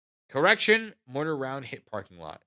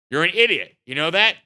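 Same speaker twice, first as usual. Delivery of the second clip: sergeant major scolding; 7 semitones higher, 14 dB louder than usual. Retold or imitated. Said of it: "Drill Sergeant Major says".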